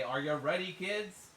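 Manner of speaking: loud, rising pirate call; SpongeBob pirate captain. Retold or imitated. Quoting the show's opening to a friend, pirate call. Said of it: "from SpongeBob".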